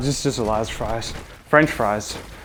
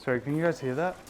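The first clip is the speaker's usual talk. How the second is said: talking while eating fries; chewing chips between words; mouth full of chips. Real, not acted. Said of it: "try not to make A S M R chip eating sounds".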